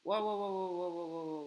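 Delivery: waouh répétés, forts puis retombant; s'affole en esquivant; waouh excité. Real, not acted. Esquive des tirs. (des waouh forts et affolés)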